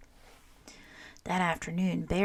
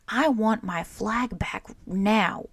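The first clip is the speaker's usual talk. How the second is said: slow, louder angry demand; firm slow angry ultimatum; 3 semitones higher, 5 dB louder, slower than usual. Acted. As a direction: lay it down firmly, hurt and cross. Bear angry over torn secret.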